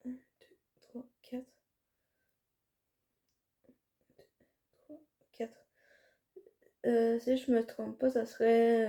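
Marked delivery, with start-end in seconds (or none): 0.1-1.5 very soft, absent-minded counting; counting to oneself. Real, not acted. Vlogger checking product names, counting quietly to oneself. 3.7-5.7 very soft, absent-minded counting; counting to oneself. Real, not acted. Vlogger checking product names, counting quietly to oneself. Counting again to find the name.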